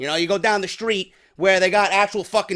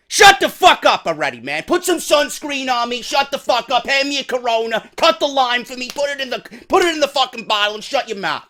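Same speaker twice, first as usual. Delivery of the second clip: raised, pressing angry orders; fed-up husband; 4 semitones higher, 4 dB louder than usual. Acted. Husband at the beach silencing his wife, irritated barking. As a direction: snap orders in a higher, irritated voice.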